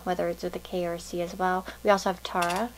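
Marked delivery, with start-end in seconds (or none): 2.2-2.7 Tara with an open "ah"; first vowel of Tara as in "far"; name said TAH-ra. Shown as a demonstration. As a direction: say Tara as TAR-uh, like "car". Offers two sayings of the name.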